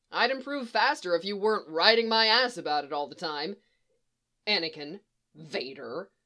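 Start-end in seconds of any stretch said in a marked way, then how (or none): 0.1-3.6 grumbling, a bit louder complaint; grumpy. Acted. Anakin complains about his master riding him, grumpy. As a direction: complain with a touch of irritation. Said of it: "sounding distinctly grumpy".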